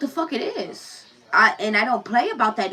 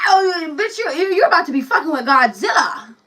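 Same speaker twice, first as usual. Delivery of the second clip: mock rage; 6 semitones higher, 5 dB louder than usual. Mock rage of losing daughter.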